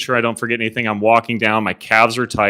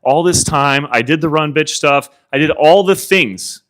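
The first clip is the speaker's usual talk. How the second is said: exasperated inner rant, pitched up; retold freak-out; 3 semitones higher, 3 dB louder than usual. Limping runner replaying his pre-race panic, freaking out. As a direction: replay your panic, building on each complaint. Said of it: "I am freaking out".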